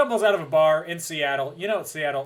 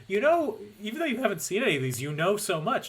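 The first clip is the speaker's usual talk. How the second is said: higher, impressed friend imitation; retold amazement; 6 semitones higher, faster than usual. Host retells a friend impressed by their knowledge, mock amazement. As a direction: mimic someone marvelling at you. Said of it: "And she's like".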